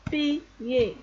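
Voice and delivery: "Piller" split into pi, yé; mot découpé. Shown as a demonstration. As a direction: sound out "Piller" for learners. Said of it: "ça se prononce yé". (« Piller » découpé en pi, yé)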